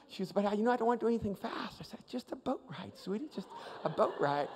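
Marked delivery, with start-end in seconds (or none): 0.3-1.8 lightly voiced anxious little girl, higher and quick; a hint of a nervous daughter protesting; quick, higher-pitched mild protest to daddy; worried child. Retold worried young daughter. 2.1-4.5 put-on softly reassuring, as to a child; hushed mock-calm reassurance; soothing father. Father soothing his scared daughter.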